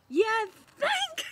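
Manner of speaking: high, loud laughing sarcasm; sarcastic laughing thanks. Retold or imitated. To the ultrasound tech, a high, loud, laughing, sarcastic thanks. Nurse says bladder so full.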